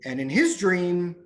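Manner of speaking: slow, with long pauses; retold waiter's deliberate, halting explanation; patient explaining. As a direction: spell it out slowly, phrase by phrase.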